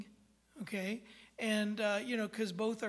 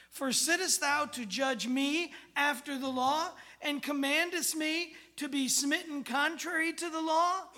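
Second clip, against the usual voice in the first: raised, declaiming King James voice; mock biblical prophet; 5 semitones higher, 4 dB louder than usual. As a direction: proclaim it like an indignant apostle. Paul's words read in KJV.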